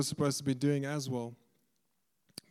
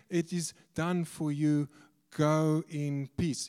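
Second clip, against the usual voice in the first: slow, drawn-out blessing; measured pronouncement; much slower than usual. Retold or imitated. Preacher quoting Jesus to the healed woman, slow and measured. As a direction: stretch each word out deliberately.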